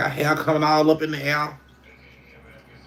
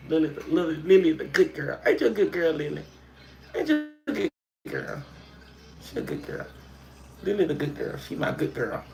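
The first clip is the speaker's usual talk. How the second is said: gentle, softer cooing praise; soft dog praise; 5 dB quieter than usual. Real, not acted. Owner softly praising her good girl dog, cooing.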